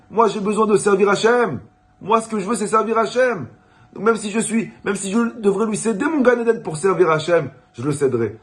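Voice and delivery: a rabbi's passionate cry of faith; fervent declaration. Acted. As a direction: proclaim it like a saint who wants only to serve God. Gaon's fervent declaration to student.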